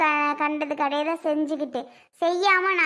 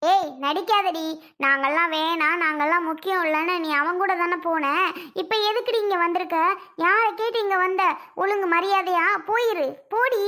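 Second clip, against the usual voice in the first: angry telling off. Acted. Mother orders daughter out.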